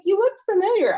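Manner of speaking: high imitated remark; lightly voiced lady. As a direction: mimic her casual recognition. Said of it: "She's like".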